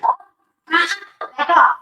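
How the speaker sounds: loud, sharp back off; loud command. Real, not acted. Ordering the pet loudly to back away. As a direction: tell them firmly to back off.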